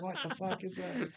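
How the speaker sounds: high, restrained imitation of a yell; mock scream. Retelling the knife-handing inspection moment, high mock scream. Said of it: "he's, like, screaming".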